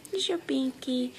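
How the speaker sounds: normal talking voice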